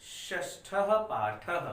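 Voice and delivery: teacher slowly announcing the lesson title, drawn out with a rise; slow title reading. Shown as a demonstration. Teacher announcing the chapter to students, slow and drawn out. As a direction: read it out slowly for the class. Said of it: "तो चलिए किताब खोलिए".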